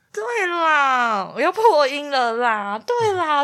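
cracking on a high excited squeal. Real, not acted. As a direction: voice breaking up high.

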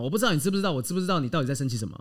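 rushed, practiced tongue twister; fast tongue twister. Shown as a demonstration. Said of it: "我把这句话练得非常多次。".

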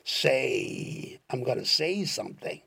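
"I'm gonna say something" drawn out very slowly, every word separate; slow demo. Shown as a demonstration. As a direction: spell it out slowly for the learner. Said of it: "要模仿那个调子".

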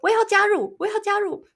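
high, loud eager chant; eager joining in. Retold or imitated. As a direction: call out eagerly like a friend who wants in. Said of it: "另外一个男的就说".

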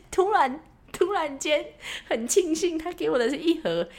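high, gleeful laughing rush; bubbling over at the free treats; giddy delight. Real, not acted. Delighted about free pastries.

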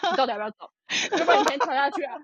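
retold exasperation. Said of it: "我整个爆炸".

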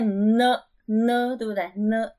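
"N" as "ne" with a held nasal onset; nasal sound. Shown as a demonstration. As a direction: hum into "N" through the nose, slowly. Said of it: "好像是有鼻音". (“N”带鼻音，念成“呢”)

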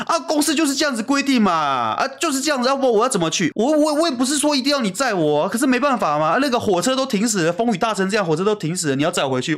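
high, whiny imitation of a pleading girlfriend; imitating girlfriend. Retelling how his girlfriend pleaded to be driven back, high mimicking voice. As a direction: squeak out her excuses in a put-on voice. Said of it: "你就说".

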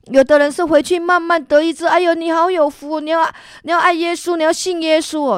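high, bright-pitched cheerful congratulating; joyful praise. Retold or imitated. Church members clapping and congratulating her, gushing. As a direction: gush over her like church aunties.

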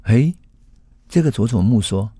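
ordinary talk

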